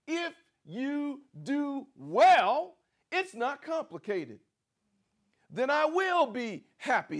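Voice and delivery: slow, high, loud proclamation; preaching climax. Acted. Preacher proclaiming God's promise, slow and loud. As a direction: stretch it out and lift it. Voicing God's words loudly.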